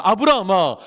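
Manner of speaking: slow, solemn proclamation; lightly voiced majestic God. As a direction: declare each word with divine weight, slowly. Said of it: "하나님께서 아브라함에게 말씀하십니다".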